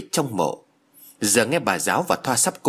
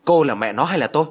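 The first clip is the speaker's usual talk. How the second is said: put-on a sharp, louder snap at the girl; snapping sharply; 4 semitones higher, 4 dB louder, faster than usual. Old mother snaps at her son's girlfriend, sharply. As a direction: bite the words out, fed up. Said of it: "bà gắt lên".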